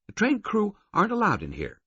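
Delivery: high, firm governess voice; stern woman. A narrator's reading. Female guard refusing the attendant entry, stern. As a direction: lay down the rule, no argument.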